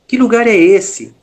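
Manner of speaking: retold calling out. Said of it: "E eu falava mais alto".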